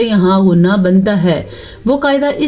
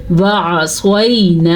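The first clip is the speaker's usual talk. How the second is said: slow melodic tajweed recitation; Quran recitation; slower than usual. Shown as a demonstration. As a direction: draw the vowels out like a Quran reciter. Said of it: "teacher recites the word to teach".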